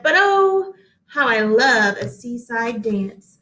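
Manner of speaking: a dreamy "oh", then slow and longing; wistful longing. Acted. The cake maker wishing for the party, slow and wistful. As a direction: sigh it out like a wish.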